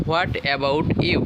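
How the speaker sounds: slow, rising on "What"; slow model, stress on what. Shown as a demonstration. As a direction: say "What about you?" slowly, lifting "What". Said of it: "তাহলে বলবো".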